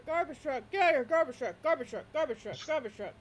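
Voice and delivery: repeated high barks dying down; loud barking. Acted. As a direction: bark it over and over like a dog. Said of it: "loud barking over and over".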